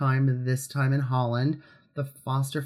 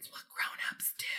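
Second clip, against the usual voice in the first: hushed, very soft whisper. Repeated aside the speaker hopes gets in: whispered. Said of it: "I'm whispering that because I'm hoping it gets in".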